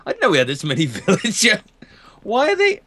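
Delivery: hushed unvoiced whisper; a secretive whispered aside. Whispering about the many villagers, hushed.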